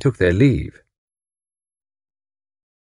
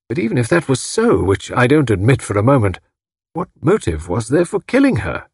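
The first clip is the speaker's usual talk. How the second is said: starts hushed and high, growing more insistent; higher-pitched, incredulous gentleman; stricken, disbelieving husband; 4 semitones higher than usual. A narrator's reading. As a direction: protest in pained disbelief.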